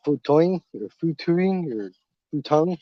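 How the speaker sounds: Futoing, futuing, futong tried slowly; fumbled pronunciation. Real, not acted. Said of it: "I can't even say it".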